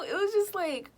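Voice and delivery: breathy hushed aside; whisper. Real, not acted. Whisper to the viewers about the crush. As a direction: drop to a secret whisper.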